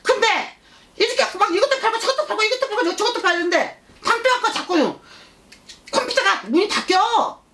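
put-on high-pitched childish sing-song; excited child spirit. Child spirit describing the shop to uncle, high childish chant. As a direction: pitch it way up like an insistent toddler.

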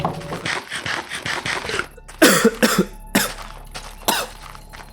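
breathless high-pitched unvoiced wheeze; high wheezing cough. Real, not acted. Sudden sound after fleeing.

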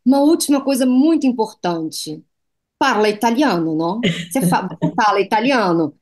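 put-on light Italian accent on Portuguese words. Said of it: "com aquele sotaque italiano". (leve sotaque italiano imitado)

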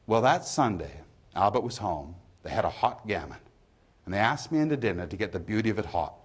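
lightly voiced pub gossip; poem reading. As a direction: read it as a pub storyteller, lightly acted. Reads the pub monologue from the poem.

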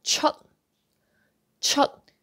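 "chut" cut short with the T unreleased; stopped T. Shown as a demonstration. Teacher models go out, "chut" with stopped T. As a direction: end "chut" on a silent tongue stop. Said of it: "don't pronounce that T".

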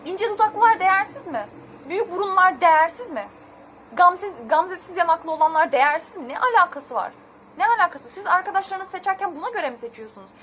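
angry rant. Real, not acted. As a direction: fire each question off in real anger. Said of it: "Bakın sinirlendim gene ya".

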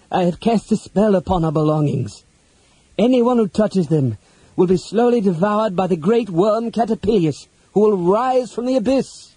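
ominous put-on wizard voice, rising; hissed threat. A narrator's reading. Wizard warning goblins off the belongings, hissing. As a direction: build the curse to a high finish. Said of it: "he hissed".

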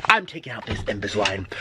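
thick-tongued frustrated speech; lisping with aligners. Real, not acted. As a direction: talk through a swollen tongue. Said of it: "I can't even speak normally anymore".

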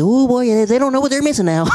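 high, drawling imitation of an old country man; country white teacher. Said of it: "He a white country dude".

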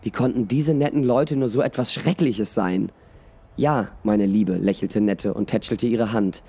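expressive audiobook reading with voiced dialogue; measured storyteller, lively in the dialogue; story narration. A narrator's reading. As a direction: read it like a fantasy tale. Reads a story aloud.

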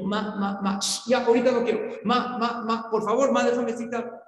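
light imitation of a stammering boy; stuttering boy. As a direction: stammer out each bit the way a nervous child would. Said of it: "No, tartamudeando".

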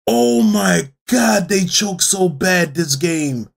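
slow, drawn-out real astonishment; stunned disbelief. Real, not acted. Fan reacting to the Red Sox choking, stunned and drawn-out. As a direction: stretch the words out in disbelief.

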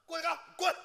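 a sharp loud shout telling him to get out; retold angry yell. Retelling how he told off his master, a loud angry yell. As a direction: bark the name, then spit out the order. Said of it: "你就这么跟他说话？".

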